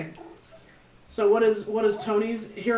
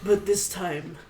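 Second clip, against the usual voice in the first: chimera voice; 5 dB quieter than usual. Acted. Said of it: "In this terrible chimera voice".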